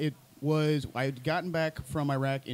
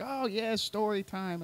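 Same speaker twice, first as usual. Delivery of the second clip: cheesy enthusiasm; 6 semitones higher, 4 dB quieter, slower than usual. Retold or imitated. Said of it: "everyone's like".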